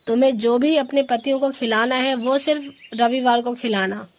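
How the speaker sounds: stern scolding. Acted. Mother-in-law ending the paneer argument, loud stern orders. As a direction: put your foot down over the menu.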